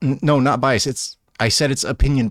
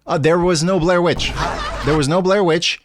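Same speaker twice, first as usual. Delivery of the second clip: laughing it out; 4 semitones higher, 4 dB louder than usual. Real, not acted. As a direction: say it through a laugh. Laughing reveal about Blair Witch.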